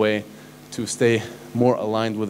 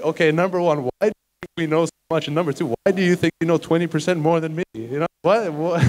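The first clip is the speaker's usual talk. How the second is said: high, baffled questioning, raised pitch; incredulous; 6 semitones higher than usual. Retold or imitated. Arguing with the classmate about fifty percent, incredulous and high. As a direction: push back in disbelief, voice up high.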